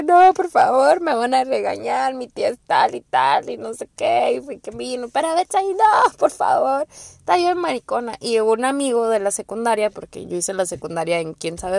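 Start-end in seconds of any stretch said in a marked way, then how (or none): 0.0-6.9 mock crying plea. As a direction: beg like a panicked girl caught by police. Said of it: "estaba llorando y llorando".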